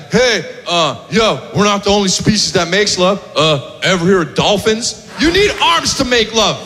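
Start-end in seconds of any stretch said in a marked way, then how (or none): 0.1-5.0 lower, smug know-it-all; smug heckler. Retold or imitated. Jerk after the show correcting the comic, smug and low. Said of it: "some jerk that comes up".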